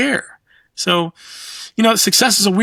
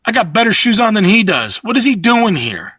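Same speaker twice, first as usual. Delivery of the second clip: higher and louder, mock disbelief; incredulous; 4 semitones higher, 3 dB louder than usual. To his buddy about the rich tech guy, incredulous. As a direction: scoff at the rich guy's choices. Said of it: "I was like".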